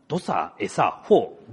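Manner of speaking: terse Akita dialect exchange. Shown as a demonstration. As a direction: demonstrate a tiny conversation in Akita dialect. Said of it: "秋田弁はですね".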